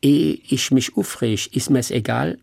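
Hessian saying without lieber. Shown as a demonstration. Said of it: "wär nicht gut".

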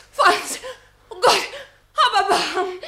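loud, high, frantic begging; terrified woman crying out for mercy; desperate plea. Acted. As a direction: scream for mercy as he holds you. Minna begs him to stop.

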